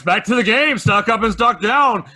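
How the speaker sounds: game show host announcing; announcer voice. Acted. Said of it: "Let's get back to the announcer voice".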